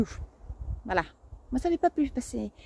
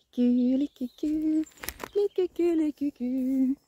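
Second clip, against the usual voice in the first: playful whisper; 3 semitones higher, 3 dB quieter, slower than usual. Pretend. Playful mock whisper of name.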